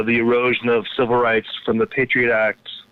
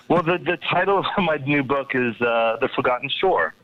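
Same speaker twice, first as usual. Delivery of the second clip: put-on English accent; 3 semitones higher than usual. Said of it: "introduce your new book with an English accent".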